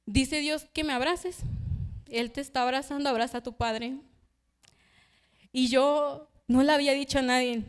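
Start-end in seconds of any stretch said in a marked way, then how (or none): 0.0-4.0 gentle message. Retold or imitated. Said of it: "esta hermana se acerca y me dice".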